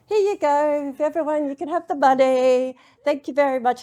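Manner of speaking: hammed-up generous proclamation to everyone; grand announcement. Player shares the winnings with everyone, loud mock-grand announcement.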